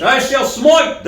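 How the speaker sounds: put-on high, slow Old English smiting; mock biblical prophet. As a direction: thunder it like an ancient prophet. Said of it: "Sounds like something from Old English".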